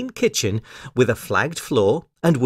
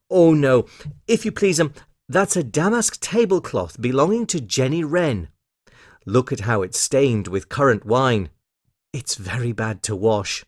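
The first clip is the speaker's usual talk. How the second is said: lightly voiced fussy washerwoman; emphatic polite correction, settling into a mild grumble; Missus Tiggywinkle.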